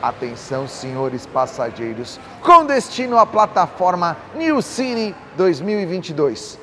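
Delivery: like a boarding call over the speakers; over the intercom. Retold or imitated. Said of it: "Sabe quando você tá no aeroporto e escuta?".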